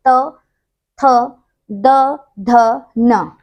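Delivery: त, थ, द, ध, न each said alone, tongue on the teeth; teacher modelling the त row; reciting consonants. Shown as a demonstration. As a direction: sound out the dental row with pauses. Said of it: "आप बोलेंगे ना".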